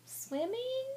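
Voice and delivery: Swimming? high with big rise; question tune. Shown as a demonstration. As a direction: lift Swimming? steeply as a question. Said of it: "you heard how my voice changed".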